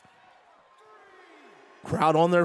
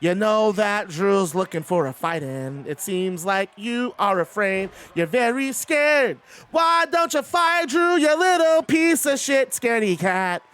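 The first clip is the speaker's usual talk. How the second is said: taunting; slower than usual. Pretend. Taunting a wrestler on stream.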